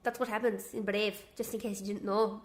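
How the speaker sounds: put-on amateur Scottish accent in character; badly faked Scottish accent; Scottish accent attempt. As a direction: tell it in a rough Scottish accent. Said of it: "You sound like a disabled Scotsman".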